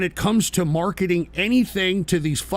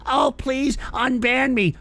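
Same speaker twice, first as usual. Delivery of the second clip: slow, higher-pitched mock begging; mocking plea; 6 semitones higher, slower than usual. Streamer mimicking banned chatters begging, drawn-out mockery. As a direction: imitate a whiner, dragging it out.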